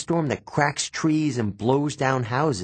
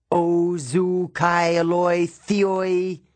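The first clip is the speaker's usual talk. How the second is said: high, drawn-out cry; yelled curse; 5 semitones higher, 3 dB louder, much slower than usual. A narrator's reading. Grover curses in ancient Greek at the cabin, yelling. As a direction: wail it slowly, each word stretched. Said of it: "he yelled".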